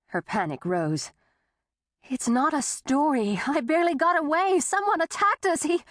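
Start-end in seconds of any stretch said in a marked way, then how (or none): 2.0-5.8 fighting grief as her pitch shoots up; panicked rising pitch. A narrator's reading. Woman insisting to the sheriff, panicked and rising. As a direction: voice climbing higher with panic, faster. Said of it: "she fought the grief that raised the pitch of her voice".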